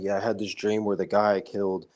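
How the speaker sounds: lightly imitated nonchalance, even and unexcited; Nicholas Irving. Ex-soldier recounting his nightmare about a man he killed, nonchalant. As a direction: tell a nightmare like it's an everyday thing. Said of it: "nonchalant about this shit".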